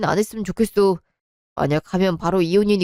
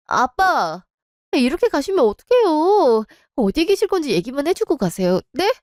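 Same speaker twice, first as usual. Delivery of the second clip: desperate pleading; 6 semitones higher than usual. Acted. Daughter begs father to stay.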